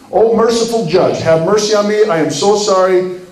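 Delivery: a touch of begging for mercy; acted pleading. Guilty defendant pleading before sentencing, mildly imploring. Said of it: "you plead your case".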